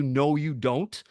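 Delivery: slow, spaced-out "No, you don't"; drawn-out refusal. Retold or imitated. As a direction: stretch each word of the refusal for effect. Repeats his reply slowly for effect.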